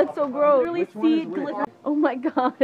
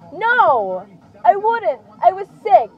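defensive protest; 2 semitones higher, 4 dB louder, slower than usual. Real, not acted. Protests being teased about childhood mistake.

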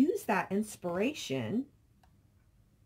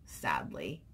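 whispered; 7 dB quieter than usual. Retold or imitated. Reading a viewer's comment aloud.

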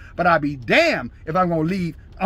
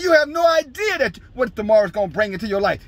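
shouted rebuke; 4 semitones higher than usual. Acted. Preacher shouts James's rebuke.

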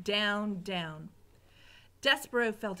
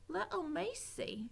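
slow, quieter, higher cooing; soft Mig; 7 semitones higher, 7 dB quieter than usual. Acted. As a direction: murmur down to the mouse. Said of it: "she said".

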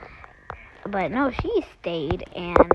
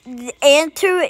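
higher, louder mock kid voice; imitating a boy; 4 semitones higher, 5 dB louder than usual. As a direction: put on a struggling kid voice. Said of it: "he would be like".

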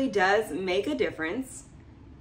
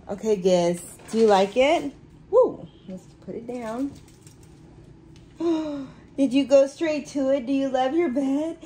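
dog talk; 3 semitones higher, 5 dB louder than usual. Real, not acted. Talking to her dog Gizmo.

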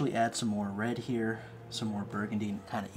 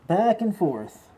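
talking through a face mask; muffled; 3 semitones higher, 8 dB louder than usual. Real, not acted. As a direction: speak muffled behind a mask. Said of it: "I'll have my mask on, so sorry if it sounds a little muffled".

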